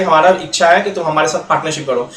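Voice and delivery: a light, friendly invitation; said lovingly. Retold or imitated. A coaxing B into partnership, mildly affectionate. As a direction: sweetly invite him to partner. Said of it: "ए बोला प्यार से".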